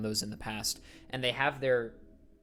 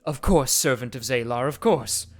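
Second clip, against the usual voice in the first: bow your head and report to the priest; devout cultist woman; 9 dB louder than usual. Acted. The cultist woman reports to the flame priest, reverent.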